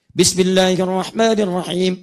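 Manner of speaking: loud recitation. Shown as a demonstration. Teacher demonstrates jahar reading, loud and slow. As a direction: project it so the back rows hear. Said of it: "dikeraskan dengan keras-keras".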